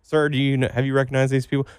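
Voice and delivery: an indignant redneck spotting trespassers; podcast host plays a backwoods farmer accusing two boys; hillbilly shed owner. Pretend.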